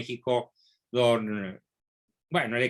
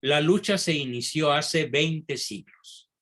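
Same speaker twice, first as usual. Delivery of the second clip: measured repeat of a quotation; deliberately slow. Shown as a demonstration. Lecturer repeating the key quote for everyone, deliberately slow. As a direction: repeat it unhurriedly for the listeners to absorb. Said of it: "la voy a decir despacito".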